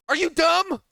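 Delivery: loud furious rant; angry shout. Real, not acted. Coach ranting at YouTube commenters, angry shout. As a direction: shout it out, losing patience.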